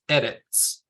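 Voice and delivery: ERETZ with the first syllable stressed; stress at the beginning. Shown as a demonstration. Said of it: "it has the stress at the beginning".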